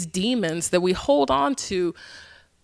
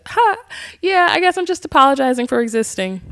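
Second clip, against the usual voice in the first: nervous laugh; 6 semitones higher than usual. Retold or imitated. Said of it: "And I laughed".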